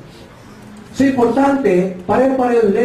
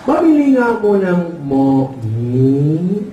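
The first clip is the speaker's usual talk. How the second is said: cleft-palate customer; 2 semitones lower, much slower than usual. Acted. Customer buying at the store, imitated cleft-palate speech. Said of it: "Sabi ng ngongo".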